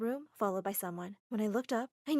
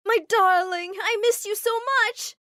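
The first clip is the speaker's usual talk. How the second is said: overjoyed reunion; 11 semitones higher, 9 dB louder than usual. Acted. Mom hugs Armitage.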